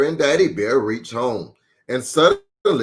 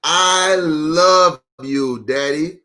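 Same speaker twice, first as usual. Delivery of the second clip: tender cub; slower than usual. Acted. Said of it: "thought Little Bear".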